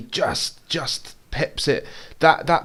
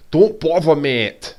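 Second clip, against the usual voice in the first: put-on amateur go at a Scottish accent, higher and louder at the start; attempted Scottish accent; 3 semitones higher, 5 dB louder, slower than usual. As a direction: imitate a Scottish shop assistant. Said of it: "attempt at Scot-, Scottish accent".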